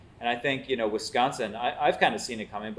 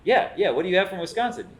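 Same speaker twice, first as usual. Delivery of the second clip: higher, louder eager pushing; eager insistence; 9 semitones higher, 6 dB louder than usual. Retold or imitated. Tipsy fan pressing the chef about Wisconsin, eager.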